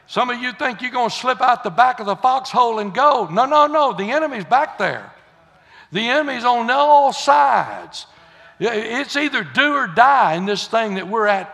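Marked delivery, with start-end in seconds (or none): 3.3-3.9 higher and louder, firm no no no; emphatic no. Real, not acted. Preacher warning the church, emphatic no. 5.9-8.1 slow emphatic warning. Real, not acted. Preacher warns of the enemy.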